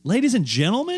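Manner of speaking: high, loud showman call; grand announcer. Shown as a demonstration. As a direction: announce it like a ringmaster. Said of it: "How many times do you say that".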